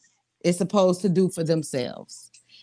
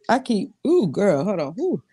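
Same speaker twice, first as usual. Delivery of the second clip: talking through a yawn. Real, not acted. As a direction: yawn mid-sentence. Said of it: "why am I yawning".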